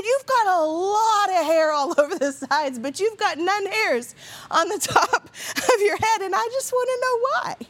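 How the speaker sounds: retelling the son's blunt question to the host, laughing and high; laughing child voice. Retold or imitated. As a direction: imitate the curious boy while cracking up.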